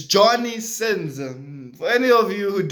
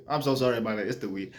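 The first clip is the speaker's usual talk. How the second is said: quiet sheepish; 10 semitones lower, 9 dB quieter, faster than usual. Real, not acted.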